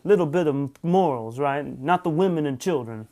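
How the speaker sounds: half-hearted mock Italian accent; lightly put-on, lilting Italian accent; attempted Italian accent. Joking with viewers about mafia morals in a poor Italian accent. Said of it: "I can't do an Italian accent".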